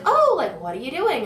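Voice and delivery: high, loud pushy friend probing; pry like a nosy friend; mock friend voice. Friend nudging narrator about the weekend, high and pushy.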